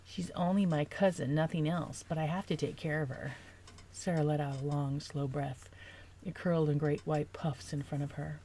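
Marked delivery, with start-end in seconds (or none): 0.0-3.3 mock the cousin-defending boyfriend, nasal; nasally yell. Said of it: "yelled in a nasally voice".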